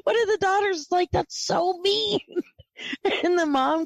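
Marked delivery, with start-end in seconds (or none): 1.1-2.2 lightly voiced higher-pitched protest; imitated daughter. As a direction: lift the pitch to mimic a daughter. Retells a daughter's reaction.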